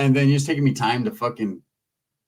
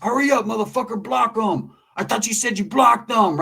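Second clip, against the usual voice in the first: rude Big Calvin; 6 semitones higher than usual. Retold or imitated. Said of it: "Big Calvin was talking to his homeboy".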